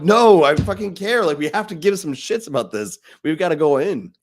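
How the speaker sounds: fired up, punching the swear; slowed, intense cry that he truly cares; passionate outburst. Retold or imitated. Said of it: "I'm not sitting and talking like this".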